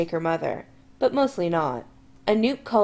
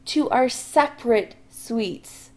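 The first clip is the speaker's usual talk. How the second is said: slow, tight gritted-teeth line; through gritted teeth; 3 semitones higher, slower than usual. Acted. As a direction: push it through a clenched jaw. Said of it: "says through gritted teeth".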